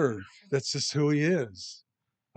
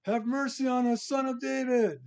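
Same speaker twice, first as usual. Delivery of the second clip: raised, beseeching cry; 10 semitones higher than usual. Acted. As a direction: call out for mercy high above your usual voice. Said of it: "They're crying out".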